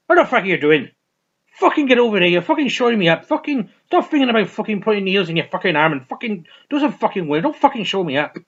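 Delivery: loud, high angry tirade; angry boss. Retold or imitated. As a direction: chew out an underling, loud and sweary. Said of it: "and his boss, the one Irish assassin, he's like".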